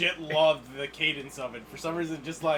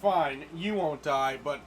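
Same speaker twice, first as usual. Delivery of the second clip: dry deadpan; 3 dB louder, much slower than usual. Retold or imitated. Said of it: "He's like".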